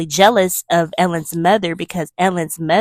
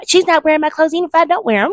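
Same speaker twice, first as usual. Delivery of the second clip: very high, bratty mock protest; snotty refusal; 11 semitones higher, 4 dB louder, faster than usual. Cousin refuses her mother over Ellen's clothes, high and snotty. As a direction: dig in like a nasty cousin. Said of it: "you're being nasty and then snotty".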